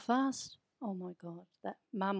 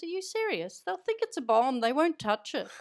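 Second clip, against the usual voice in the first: much higher, louder Irish scoff; scoffing Irish accent; 5 semitones higher, 5 dB louder than usual. Retold or imitated. Auntie mocking Mum's fear, in a higher, louder Irish accent. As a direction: laugh it off in a strong Irish lilt. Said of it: "you went into an Irish accent there".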